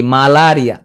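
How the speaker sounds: মালারিয়া as maa-laa-ri-a, full vowels; spelling pronunciation. Shown as a demonstration. Teacher fixing a disease spelling, full-vowelled মালারিয়া. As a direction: give both a's in মালারিয়া a full "aa". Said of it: "পড়বা কি?".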